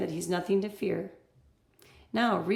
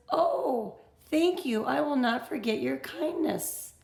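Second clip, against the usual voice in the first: grateful wolf; 5 semitones higher, 5 dB louder than usual. Acted. Teacher voices grateful wolf.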